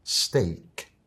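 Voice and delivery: Steak said /steik/, rhyming with make; English pronunciation. Shown as a demonstration. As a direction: say Steak the English way, not as spelled. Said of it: "te la digo con la pronunciación correcta".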